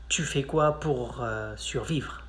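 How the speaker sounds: half-joking, dropping away at the end; mock literal translation; wrong literal version. Shown as a demonstration. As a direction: show the silly word-for-word phrasing. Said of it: "In French, we don't say that".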